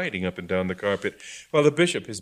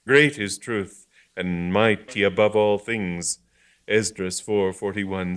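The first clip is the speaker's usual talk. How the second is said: solemn quoting; 4 dB louder, slower than usual. Acted. Augustine quoting scripture.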